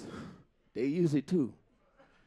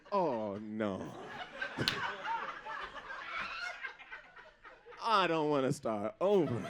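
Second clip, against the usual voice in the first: mock panic; 5 semitones lower, 7 dB quieter than usual. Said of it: "you're like".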